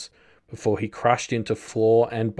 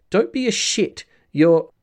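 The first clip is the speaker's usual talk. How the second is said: high-pitched, louder at the break-off; Lookout; 10 semitones higher, 5 dB louder than usual. A narrator's reading. Girl scolds a teammate as others leave earshot, higher voice. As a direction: lift it far above the narrating voice. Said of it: "Lookout's voice was higher".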